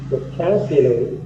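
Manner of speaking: VOCABULARY stressed on the CAB syllable; second-syllable stress. Shown as a demonstration. Teacher shows students where the stress falls, second-syllable stress. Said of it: "The stress should be on the second syllable".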